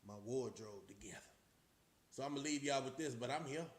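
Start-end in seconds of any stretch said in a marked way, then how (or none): 0.1-1.2 a quick aside under the breath; whispered aside. Real, not acted. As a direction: whisper it off to the side. Aside while getting dressed.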